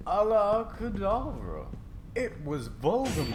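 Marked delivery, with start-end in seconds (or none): 0.1-1.7 slow, higher villain incantation. Acted. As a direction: cast the curse with menace. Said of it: "the croon voice say".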